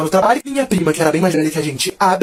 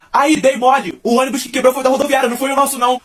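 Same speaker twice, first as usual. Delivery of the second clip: loud high teasing yell from a bus; friend yelling; 7 semitones higher, 5 dB louder than usual. Retold or imitated. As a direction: shout it mockingly out the window. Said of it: "Ele só se deu o trabalho de gritar assim".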